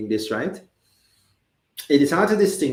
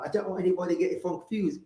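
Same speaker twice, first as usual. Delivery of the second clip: lightly put-on British accent, a little softer; 4 semitones higher, 5 dB quieter, faster than usual. Host doesn't want anybody confused, mild British accent. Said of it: "get in my British accent".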